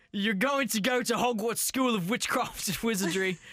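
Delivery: hammed-up Cockney parent; put-on Cockney. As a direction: tell a child off in mock Cockney. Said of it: "We're so very Cockney".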